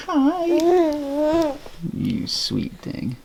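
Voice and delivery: high hi, then soft and slow. Real, not acted. Greeting the waking baby.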